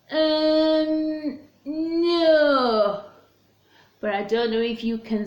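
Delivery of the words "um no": high, guilty little rabbit fibbing; hesitant mock denial, voice pitched up.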